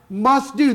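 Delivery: "Must do" with stress on Must; emphatic must do. Shown as a demonstration. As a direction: hammer the word Must home. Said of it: "That's emphatic".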